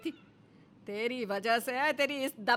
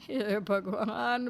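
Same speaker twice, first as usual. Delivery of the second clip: slow relieved sigh; 3 semitones lower, much slower than usual. Acted. Mother-in-law relieved.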